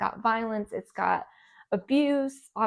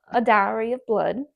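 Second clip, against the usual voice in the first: Southern accent; 3 dB louder than usual. Real, not acted. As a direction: say A Diary of Blood with a Southern US accent. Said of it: "I don't know why I'm going Southern".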